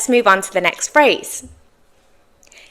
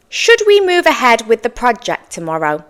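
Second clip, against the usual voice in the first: more formal tone. Shown as a demonstration. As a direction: ask it formally, as if at work. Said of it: "ask this in a more formal tone".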